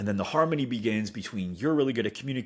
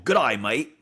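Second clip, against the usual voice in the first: mock Australian accent. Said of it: "that's us imitating an Australian".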